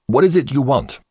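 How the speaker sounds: snapped. A narrator's reading. Father interrupted while reading the paper, impatient snap. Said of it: "I snapped".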